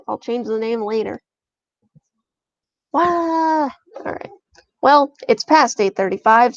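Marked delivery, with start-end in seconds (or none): 2.9-3.6 high, drawn-out "wah"; high-pitched wail; playful wail. Real, not acted. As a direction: let out a long mock wail. Frustrated wail while setting up.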